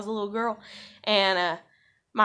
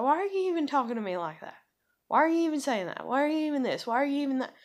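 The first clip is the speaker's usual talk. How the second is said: quick string of raised questions; exasperated questioning; 4 semitones higher, faster than usual. Retold or imitated. Woman retelling her replies to this guy, exasperated. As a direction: rattle off the questions, pitched up.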